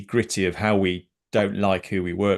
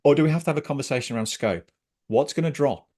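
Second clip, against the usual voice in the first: higher, quick, impassioned questions; passionate; 4 semitones higher, faster than usual. Real, not acted. Coach asking what scope gets dropped, passionately. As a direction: keep pushing the questions with passion. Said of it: "you can hear the passion in my voice".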